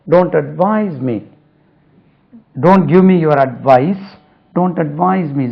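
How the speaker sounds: very slow, each word spaced out; teacher dictating English slowly to students; slow model sentence. Shown as a demonstration. Teacher reading an example sentence aloud, very slowly. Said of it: "slow model sentences".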